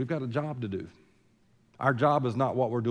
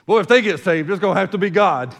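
mock exclaim; 7 semitones higher, 11 dB louder than usual. Mock quote of doubting churchgoer.

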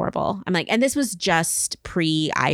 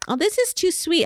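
put-on old grandma voice; 11 semitones higher than usual. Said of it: "grandma or grandpa gets old and they're like".

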